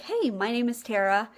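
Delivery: lightly perky greeting with a lifted "hey"; a touch of pep, retold; perky quote. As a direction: imitate a friendly, perky introduction. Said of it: "like, very perky".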